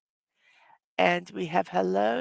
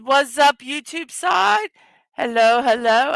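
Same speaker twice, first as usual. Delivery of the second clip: higher, louder hail to the chat; calling out; 5 semitones higher, 4 dB louder than usual. Real, not acted. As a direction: call out across the room to the viewers.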